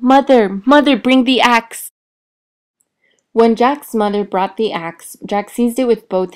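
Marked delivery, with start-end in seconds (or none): 0.0-1.9 loud urgent calls, higher pitched; shouting loudly. A narrator's reading. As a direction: yell for help down the beanstalk. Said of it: "shouted as loudly as he could".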